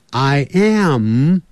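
I am ending on a closed-lip m. Shown as a demonstration. Teacher showing lips closing on I am. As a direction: close the mouth firmly on the m of am. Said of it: "那个嘴巴都是闭起来的".

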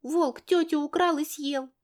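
put-on high, slow, far-off child's whine; a tearful girl insisting; whining little girl. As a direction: daughter whining that the wolf ate the lady. Tearful girl insists about wolf.

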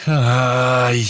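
high, loud anguished cry; a hero wails, unable to save his friends; cry of despair. Acted. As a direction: let out a raw wail of pain. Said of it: "кричу я от отчаяния и боли в душе".

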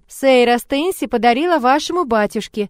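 ordinary delivery

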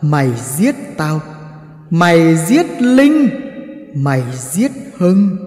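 a hint of a ghostly voice; a ghost naming its murderer, barely shifted from the narrator; voice from hell. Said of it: "giọng nói u ám như từ địa ngục".

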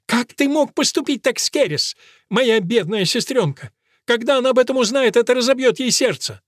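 намного выше и громче, женский голос; причитать с негодованием; возмущённая женщина. A narrator's reading. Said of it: "Элис не унималась". (Элис причитает о сестре)

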